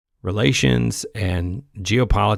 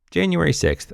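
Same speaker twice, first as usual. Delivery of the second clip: controlled, quieter exasperation; restrained repeat; 6 semitones higher, 3 dB quieter than usual. Real, not acted. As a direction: bring it down from the squeal and state it. Same words repeated lower.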